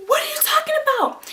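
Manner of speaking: very high, loud squeaky denial; squealed mock innocence; innocent child. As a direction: play a kid acting clueless to mom. Child feigns innocence to mom.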